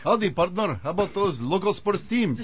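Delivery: a hint of a hokey cowboy; mock folksy American. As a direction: play the too-friendly all-American neighbour. Mocking spies trying to seem American.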